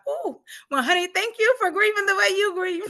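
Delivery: high-pitched, gushing gratitude to a husband; effusive thanks. Retold or imitated. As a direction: thank a spouse in a lifted, high voice. Acted thanks to her husband.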